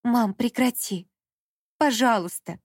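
slow, pleading moan; moaning plea. A narrator's reading. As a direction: beg her to stop, worn out. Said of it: "простонала Даша". (простонала, медленно и умоляюще)

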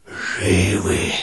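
tiny voices whispering back from inside the skull; barely-there whisper. Acted. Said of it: "ответили они шёпотом".

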